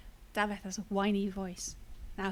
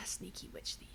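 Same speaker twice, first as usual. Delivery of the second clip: whispered echo of the insult; amused echo; 11 dB quieter than usual. Retold or imitated. Player echoing Alistair's insult to herself, whispered. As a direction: murmur it to yourself under your breath. Echoes a game line to herself.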